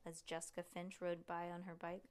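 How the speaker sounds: plain reading voice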